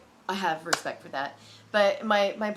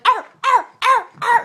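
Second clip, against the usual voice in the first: high, loud yapping barks; hammed-up high-pitched dog barks; mock dog barking; 17 dB louder than usual. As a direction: bark like a dog, mimicking worshippers. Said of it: "like barking like dogs".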